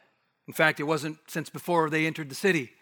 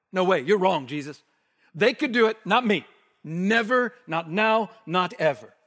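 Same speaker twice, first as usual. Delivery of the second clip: indignant Peter; 3 semitones higher, 3 dB louder than usual. Acted. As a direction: push back at Jesus hard. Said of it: "You might translate it like".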